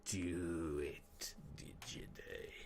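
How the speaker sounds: hushed, sinister whispered chant; Palpatine. Acted. Doing the Palpatine hymn, soft sinister whisper. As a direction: sink into an evil emperor's whisper. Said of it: "Just like the Palpatine hymn".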